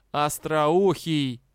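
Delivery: slow, drawn-out hissing insult in a changed voice; hissed insult. A narrator's reading. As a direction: hiss it slowly with contempt. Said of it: "прошипел". (злобное протяжное шипение)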